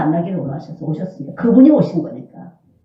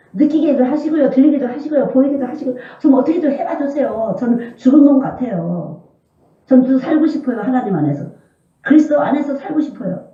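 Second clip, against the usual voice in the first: raised, earnest begging; pleading prayer; 4 semitones higher than usual. Shown as a demonstration. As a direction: keep pleading higher. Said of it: "그걸 기도하세요".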